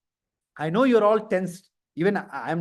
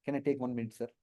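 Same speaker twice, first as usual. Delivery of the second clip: low, soft polite request; quiet, deferential plea; tense candidate; 7 semitones lower, 9 dB quieter, faster than usual. Acted. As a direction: meekly ask for a breather. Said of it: "If you are tense".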